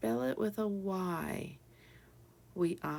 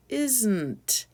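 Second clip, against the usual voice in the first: "Isn't" contracted into one loud, higher word; even faster; 4 semitones higher, 6 dB louder than usual. Shown as a demonstration. Teacher shows the words smashed together, quick "Isn't". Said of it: "say it even faster".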